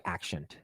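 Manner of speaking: "accent" coming out as "ak-shent". Shown as a demonstration. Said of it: "talking normally".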